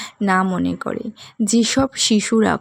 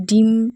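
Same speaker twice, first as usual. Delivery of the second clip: ডিম said with extra weight; stress on ডিম; 2 semitones higher, 4 dB louder, slower than usual. Shown as a demonstration. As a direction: lean firmly on the word ডিম. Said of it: "ডিম শব্দটির ওপর বেশি জোর দিতে হবে". (ডিম শব্দে জোর দিয়ে)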